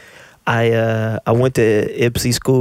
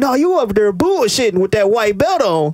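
heckler voice; 9 semitones higher than usual. Retold or imitated. Imitating heckler calling him out.

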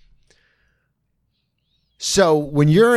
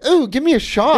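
greedy glee; 13 semitones higher than usual. Retold or imitated. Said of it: "You went".

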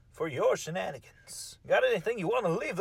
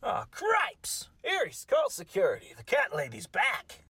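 mock alarm. Host panics about cat lady.

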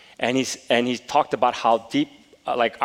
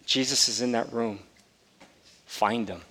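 soft guiding voice; 6 dB quieter than usual. Retold or imitated. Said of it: "And he said".

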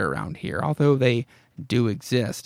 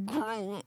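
very soft, pitched-up mock groan; imitated groan; 8 semitones higher, 13 dB quieter than usual. Guessing at the comic's sound effect, imitated groan. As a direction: have a go at a groaning noise. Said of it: "maybe it was supposed to be".

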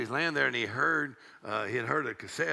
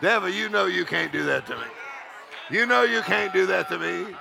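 raised, loud and building; defiant declaration; 5 semitones higher, 4 dB louder than usual. Acted. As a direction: throw it at the devil forcefully. Preacher defies the devil, building.

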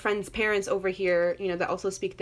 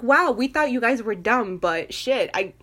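condescending; 4 dB louder, slower than usual. Retold or imitated. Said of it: "in this, like, condescending kind of way".

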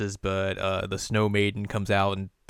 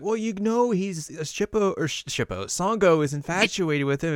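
put-on high-pitched girlish voice, much higher; high voice as Kagome; 9 semitones higher than usual. Podcaster voicing Kagome explaining to Shippo, high-pitched. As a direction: squeak it out as Kagome. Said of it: "Kagome's like".

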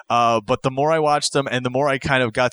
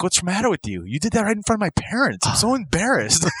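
put-on yelling girlfriend; 7 semitones higher than usual. Girlfriend berating him after the chase, mock yelling. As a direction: imitate her telling him off in falsetto. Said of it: "she's yelling at him".

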